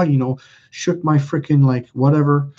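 normal talking voice

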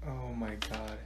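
low, barely audible groan of words; exasperated mutter. Acted. Teacher fed up with a needy student, low mutter.

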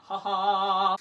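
"ha ha" pushed out on bursts of air; breathy ha demo. Shown as a demonstration. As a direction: bounce the breath from the diaphragm. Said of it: "gives it a bit of a blast".

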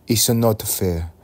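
a lightly put-on Asian accent, slow and rising; mock Asian accent whining about stereotypes. Vlogger complaining to viewers in a light Asian accent. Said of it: "Why am I doing an Asian accent?".

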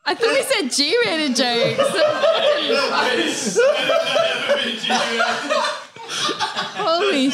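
protesting through real laughter; scandalised laughing. Real, not acted. Comic shocked by friend's dirty joke, scandalised laughing. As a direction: scold him while cracking up.

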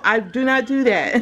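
laughing through the words, NOT stressed; laughing denial. Real, not acted. Teasing Karen about going off, laughing. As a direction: giggle out the denial.

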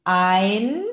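"ein" with EI said like English "eye", drawn out; EI como "ai". Shown as a demonstration. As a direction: open "ein" on a clear A sound, gliding to I. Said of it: "E com I tem som de A". ("ein" com som de "ain", bem aberto)

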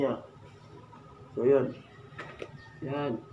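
through a face mask; muffled, pressed cheeks; inside a helmet. Real, not acted. Seen 1: Full-face helmet worn throughout; cloth mask over mouth, hands adjusting.

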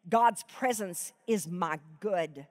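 emotional, near-tearful verse; choked-up reading. Real, not acted. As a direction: fight back tears. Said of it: "swallow this lump in my throat".

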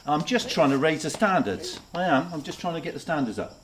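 put-on Newcastle accent, lightly done; Geordie accent. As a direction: speak with a Geordie lilt. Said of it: "I'm Geordie through and through".

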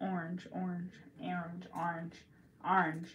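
"orange" tested as "ornge", then "arnge"; trying out pronunciations. Shown as a demonstration. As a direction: shift the vowel of "orange" from "or" to "ar". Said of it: "Do you say orange or orange?".

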